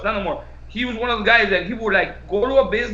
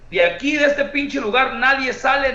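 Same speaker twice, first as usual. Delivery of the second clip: mock announcement, louder at the end; retold mic announcement; 7 dB louder than usual. Promoter on the microphone locking down the venue, mock loud order. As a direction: boom it out like a boss on the mic. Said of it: "like that".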